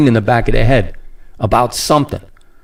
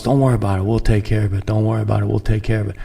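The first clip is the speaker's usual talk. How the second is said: softer, lower, falsely soothing; imitating officials soothing the public, softer and lower; mock reassurance; 4 semitones lower, 5 dB quieter, much faster than usual. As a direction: lull them with fake comfort. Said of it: "They keep telling us".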